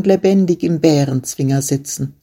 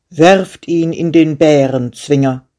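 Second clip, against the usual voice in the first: commanding king; 3 dB louder than usual. Acted. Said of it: "und er befahl".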